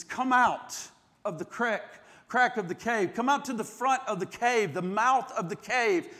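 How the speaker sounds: a quiet, inviting call from the cave; soft divine call. Acted. God gently calls Elijah out.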